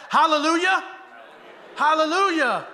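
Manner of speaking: loud, high Hallelujah cry; joyful shout. Real, not acted. Pastor exulting to the church, high and loud. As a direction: shout it out in triumph.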